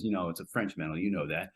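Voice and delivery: lightly voiced quiet put-down; quoted correction. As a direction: murmur the correction back at him. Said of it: "he corrects him".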